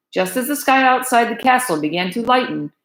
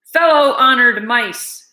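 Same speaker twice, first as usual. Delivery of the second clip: slow, loud pompous address; formal address; 4 semitones higher, 5 dB louder, slower than usual. Acted. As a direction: open the council grandly. Head mouse opens council.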